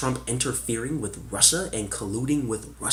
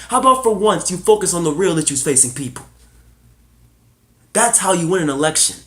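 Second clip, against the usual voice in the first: higher, louder campaign-style push; rallying rant; 4 semitones higher, 4 dB louder than usual. Real, not acted. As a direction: hammer each demand like at a rally. Rallying call for real issues.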